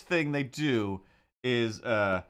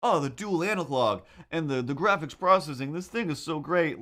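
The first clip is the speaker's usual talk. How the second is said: higher-pitched mock ad enthusiasm; scripted commercial gushing; 5 semitones higher than usual. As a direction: parrot fed sales lines, lightly hammed-up. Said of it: "clearly fed to them commercial things".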